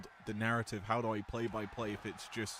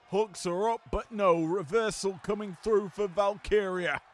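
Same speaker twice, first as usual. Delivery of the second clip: much louder, higher growl on the big maneuver; big-move emphasis; 6 semitones higher, 8 dB louder, slower than usual. Shown as a demonstration. Commentator showing his big-move emphasis, growling loud. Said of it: "you hear the emphasis come through as".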